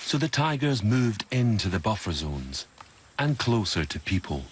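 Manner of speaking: measured, polished documentary voice-over; documentary narration. A narrator's reading. Narrator telling viewers about human kills, documentary narration. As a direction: narrate the facts gravely and clearly.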